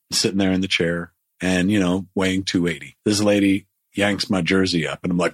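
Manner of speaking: ordinary talk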